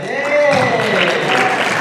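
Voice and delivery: sudden high startled shout; startled yelp. Retold or imitated. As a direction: jump with a frightened hey. Recalling acting afraid scene.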